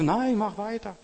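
loud, high keep going; urging on. Retold or imitated. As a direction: push him on with a shout. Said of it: "Und sagte".

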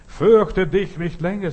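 loud, high, slow proclamation; rousing exhortation. Acted. Preacher to a fearful soul, calling out loudly. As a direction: call it out slowly and forcefully. Preacher calls out against fear.

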